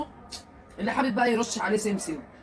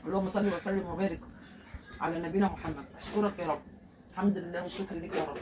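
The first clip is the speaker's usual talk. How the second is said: murmured prayer; 3 semitones lower, 5 dB quieter than usual. Real, not acted. Quiet prayer of thanks.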